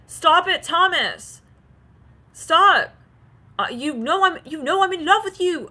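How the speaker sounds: high, loud pleading plea; loud, high-pitched plea to stop; pleading cry. Acted. Channeled pleading quote to partner.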